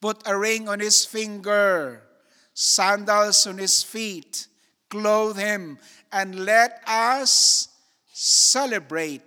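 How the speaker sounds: loud, ringing order to the servants; joyful loud command, building to celebrate; father's command. Acted. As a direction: call it out like a father giving orders. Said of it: "He ordered".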